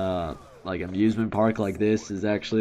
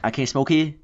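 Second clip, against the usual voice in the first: higher, louder mock disbelief; imitating her surprised question; a touch of an offended lady; lady asking back; 6 semitones higher, 4 dB louder than usual. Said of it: "she's like".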